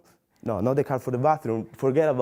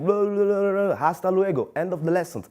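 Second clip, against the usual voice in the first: higher-pitched gibberish lecture, lightly imitated; mock rambling professor; 5 semitones higher than usual. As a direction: imitate a teacher babbling through a lesson. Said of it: "he was like".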